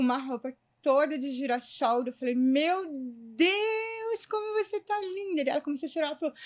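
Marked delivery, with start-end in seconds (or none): 2.4-5.4 high, drawn-out delighted exclamation; soaring pitch, thrilled compliment; amazed admiration. Retold or imitated. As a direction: gush over a friend's makeover, retold. Amazed at client's new look, retold.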